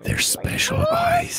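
sudden high, slow theatrical cry; hammed-up shriek about his special eyes; mock-dramatic wail; high dramatic shout. Dramatic creepy line in game.

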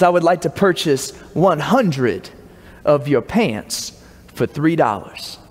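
hammed-up posh purchase request; mock fancy accent. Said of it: "talk in the fanciest accent I know".

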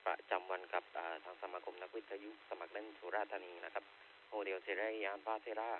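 handheld radio transmission; like talking through a handheld radio; over walkie talkie. Real, not acted. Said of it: "ออกอากาศด้วยเครื่อง Handy".

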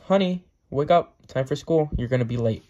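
mild acted yell to wake someone; mock yell. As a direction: call a sleepy kid from the kitchen, half-yelled. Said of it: "John's mom is cooking breakfast in the kitchen and yells".

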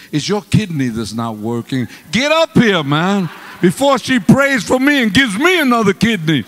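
loud, high call to his wife; urgent mock panic. Calling his wife up to the platform, loud mock panic.

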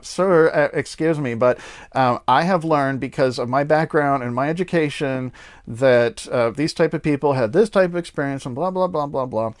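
whiny pedantic scholar voice; nasal-free whine, pleading and prissy. Retold or imitated. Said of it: "I have this whiny voice like".

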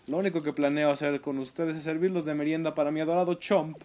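lightly voiced haughty lady; a touch of a snooty middle-aged woman; man doing a woman's voice. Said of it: "Estoy hablando como señora, con crisis de mediana edad".

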